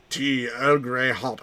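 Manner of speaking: lightly voiced starship captain; slow, deliberate order to the computer; half-hearted captain impression, drawn out; Picard. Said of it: "I can't do a Picard voice".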